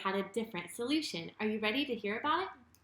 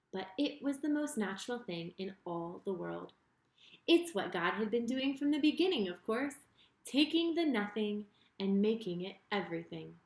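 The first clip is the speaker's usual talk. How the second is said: put-on lively storyteller reading to kids; story narration for children. A narrator's reading. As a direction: tell it like a bedtime Bible story. Reads Bible story to children.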